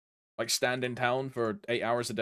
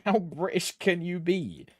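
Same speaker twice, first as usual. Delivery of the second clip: usual speaking voice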